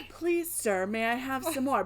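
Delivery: high Cockney-style British accent; awful British accent. Shown as a demonstration. Mother showing her son the line in a British accent. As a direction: beg like an orphan in a bad British accent. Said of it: "in my awful accent".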